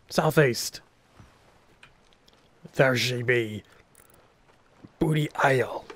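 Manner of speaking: hammed-up pirate talk; gruff pirate captain voice. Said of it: "how much you hated my pirate voice".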